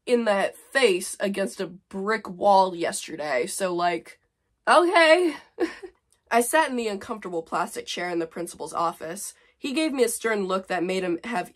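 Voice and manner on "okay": high, loud, drawn-out okay; a mocking high okay; sarcastic okay. Real, not acted. Mocking her teen self's complaining, sarcastic. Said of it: "sarcastic okay".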